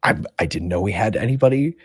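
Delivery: high, bright eager voice; eager young man. Acted. Gentleman greeting the newcomers, high and eager. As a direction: gush like an overeager newbie. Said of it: "the gentleman's like".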